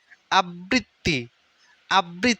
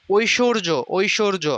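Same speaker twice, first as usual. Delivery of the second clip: ষান্মাসিক drawn out very slowly, syllable by syllable; slowed-down ষান্মাসিক for students; slow syllable drill; much slower than usual. Shown as a demonstration. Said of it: "এখানে দুইটাই তালব্য স".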